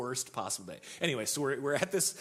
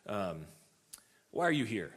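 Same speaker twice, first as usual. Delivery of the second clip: mildly confrontational stranger, a bit louder; retold aggressive challenge; 4 dB louder than usual. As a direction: challenge them, imitating an aggressive man. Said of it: "he's, like, very aggressive".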